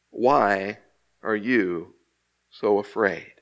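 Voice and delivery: low, word by word, with pauses; measured question. Acted. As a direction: ask it slowly, a pause after each phrase. Jesus questions frightened disciples, word by word.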